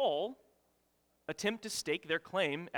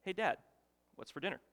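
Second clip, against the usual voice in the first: calm, casual question to dad; unbothered calm voice; 3 semitones higher than usual. Retold or imitated. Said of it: "in a calm voice".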